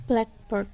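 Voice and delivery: "black" in blackbird stressed over "bird". Shown as a demonstration. Lecturer showing classmates the compound rule, "black" stressed in blackbird. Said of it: "Blacknya ini lebih ada tekannya".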